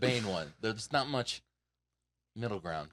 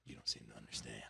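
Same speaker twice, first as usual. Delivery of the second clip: citation menaçante imitée; 8 semitones lower, 9 dB quieter than usual. Acted. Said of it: "to people, I'd be like".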